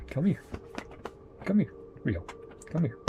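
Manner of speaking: lightly sing-song call to the cat. Real, not acted. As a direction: coax the cat over. Calling the cat over.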